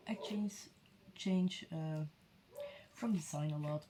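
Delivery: talking while munching chips; crunching chips. Real, not acted. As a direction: mouth full of chips. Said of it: "don't mind me munching on some chips".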